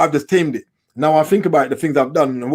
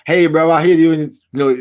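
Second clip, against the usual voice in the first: put-on American accent; 2 semitones higher, 4 dB louder than usual. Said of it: "They got American accent".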